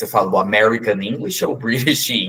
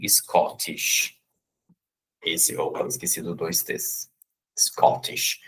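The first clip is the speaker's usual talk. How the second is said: whisper; 4 semitones lower, 6 dB quieter, slower than usual. Shown as a demonstration. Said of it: "repeats word".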